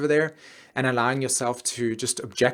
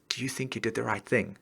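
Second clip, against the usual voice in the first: soft whisper; 7 dB quieter than usual. Acted. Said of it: "it whispers in your ear".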